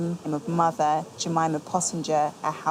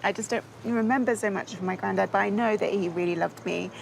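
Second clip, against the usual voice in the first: real tearful joy; moved to happy tears while explaining. Real, not acted. Granddaughter remembering granddad to his old friend, happy tears. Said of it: "it's happy tears".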